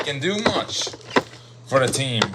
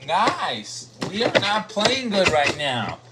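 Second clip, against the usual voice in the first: halftime pep speech; 4 semitones higher than usual. Retold or imitated. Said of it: "Coach Peter Spidey told them at the break".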